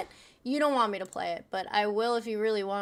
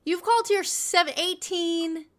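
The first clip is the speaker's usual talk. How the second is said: slow pointed counting; 7 semitones higher, slower than usual. Real, not acted. Slowly counting up caller's calls.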